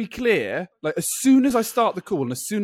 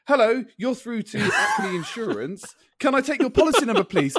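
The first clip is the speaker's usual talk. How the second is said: mock agent; 2 semitones higher than usual. Imitating insurance agent.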